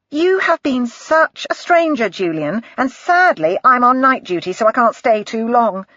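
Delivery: breezy nurse gushing at Julian, lightly voiced; Sarah. Sarah's lines in the bar.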